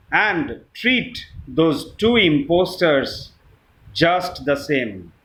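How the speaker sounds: measured, solemn verse with pauses; poem recitation. Acted. Reciting Kipling's If to friends, measured poem recitation. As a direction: recite line by line, letting each phrase fall.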